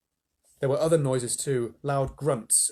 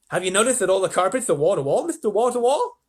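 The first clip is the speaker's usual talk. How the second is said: raised, loud presidential banter; jovial president; 6 semitones higher, 6 dB louder than usual. A narrator's reading. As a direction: joke along as the president. President jokes with hotel manager.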